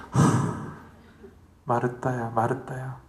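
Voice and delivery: soft sigh, then the name twice, gently; a weary sigh before calling her name; sighing Jesus. Retold or imitated. Jesus sighs softly to busy Martha, gently calling. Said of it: "한숨도 쉬셨을 것 같아".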